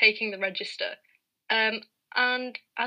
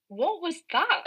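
stern teacher voice; 6 semitones higher, much slower than usual. Retold or imitated.

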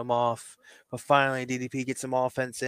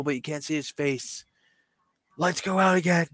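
excited play-by-play, a little raised; wrestling commentator; 4 semitones higher than usual. Acted. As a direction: build suspense like a ringside announcer. Calls wrestling show as commentator.

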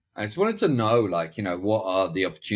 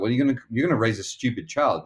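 mock scornful parents; 4 semitones higher, faster than usual. Parents scoffing at the father.

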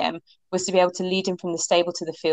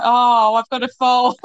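higher and louder, delighted shock; mock overjoyed realisation; thrilled disbelief; 5 semitones higher, 6 dB louder, slower than usual. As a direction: gasp it out in happy disbelief. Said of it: "I was like".

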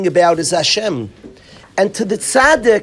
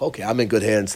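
calm relief; 12 semitones lower, 7 dB quieter, faster than usual. Retold or imitated. Captive relieved on seeing his friend.

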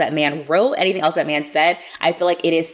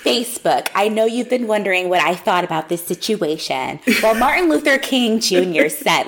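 pompous pulpit speaker. Retold or imitated. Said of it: "stands at the pulpit, clears their throat".

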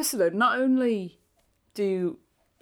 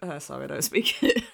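laughing apology; 4 semitones lower than usual. Retold or imitated. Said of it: "you'd be like".

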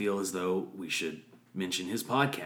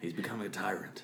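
hushed conspiratorial whisper; 8 dB quieter, faster than usual. Pretend. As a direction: whisper it like plotting. Whispered plotting.

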